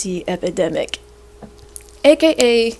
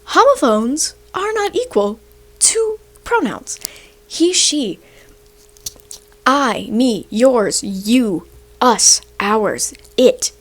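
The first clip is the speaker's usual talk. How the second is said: emphatic whisper; slower than usual. Real, not acted. Emphatic lecturing correction.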